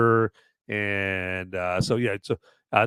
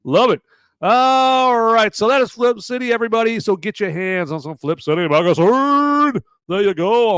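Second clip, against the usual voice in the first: louder, higher hype yell; yelling like Oprah; 9 semitones higher, 6 dB louder than usual. Pretend. Hyping the magazine like Oprah, mock yell. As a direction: belt it out like a talk-show host. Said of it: "I'm yelling like Oprah Winfrey".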